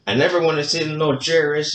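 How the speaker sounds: put-on light Mexican accent, laid-back and stubborn; a hint of a Mexican accent as Calito refuses the chair. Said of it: "really good accent, like, Mexican accent".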